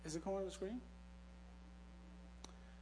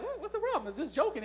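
laughing it off; 7 semitones higher than usual. Retold or imitated. Brushing off offense, laughing.

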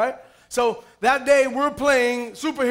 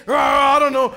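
mock Hulk growl; 5 dB louder than usual. Kid as Hulk growling answer.

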